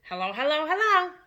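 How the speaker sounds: a lightly voiced squawking parrot, rising on the last hello. A narrator's reading. The parrot greets the children, a lightly voiced squawk. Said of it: "Suddenly the parrot said".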